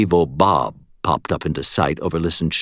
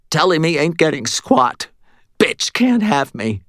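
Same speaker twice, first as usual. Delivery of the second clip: higher, slurred and defiant; 10 semitones higher than usual. Acted. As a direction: slur the words, half out of it. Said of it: "Morty said in a slurred voice".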